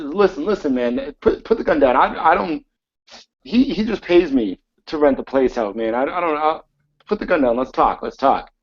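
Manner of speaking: pleading. Acted. Manager pleads at gunpoint.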